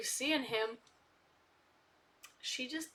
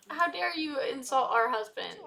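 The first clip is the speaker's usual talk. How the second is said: 1 mock outrage; 5 dB louder than usual.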